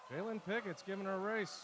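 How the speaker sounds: high, loud excited call over the race; real thrill of a close finish; excited shout. Real, not acted. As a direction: shout it as the swimmer surges.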